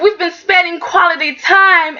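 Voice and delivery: mock sincere claim. Quotes her excuse mockingly.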